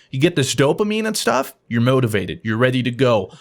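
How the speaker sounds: lightly voiced low motivational pitch; low-pitched hype talk, lightly put on; motivational speaker. Speaker pitching a forearm program to the boss, lightly voiced motivational speaker.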